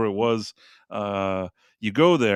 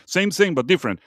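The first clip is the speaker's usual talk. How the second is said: put-on Thai vendor accent; 3 semitones higher than usual. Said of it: "Is it the same".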